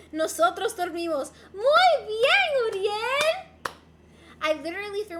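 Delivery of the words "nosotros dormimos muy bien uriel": mock app praise. App praise read to viewer.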